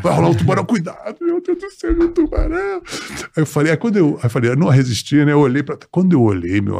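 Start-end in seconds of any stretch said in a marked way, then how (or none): 0.6-2.8 high, frantic shark panic; panicked. Retold or imitated. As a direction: yelp it out in sudden fear.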